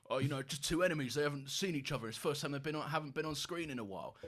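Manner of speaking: lightly voiced old boomer fan; old man. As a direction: put on a hint of a grumbling old man. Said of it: "that's me being an old man".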